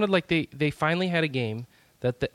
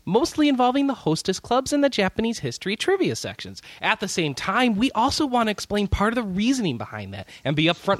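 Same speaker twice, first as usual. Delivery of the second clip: condescending voice; 2 semitones higher than usual. Shown as a demonstration. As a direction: talk down to the fans sweetly. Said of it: "Condescending voice".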